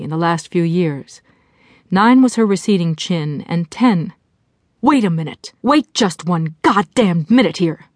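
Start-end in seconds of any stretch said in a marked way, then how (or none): 4.8-7.9 understated fury, each word pressed; furious interruption. Acted. Inner no-bullshit voice breaking in on Jessie, furious. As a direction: break in angrily on someone's thoughts. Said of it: "The no-bullshit voice broke in furiously".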